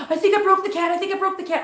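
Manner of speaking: high, frantic re-enacted phone call; retold panic. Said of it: "just panicked".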